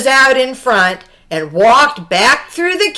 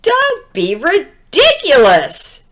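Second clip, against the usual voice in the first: dismissive police; 5 semitones higher than usual. Acted. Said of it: "said the police".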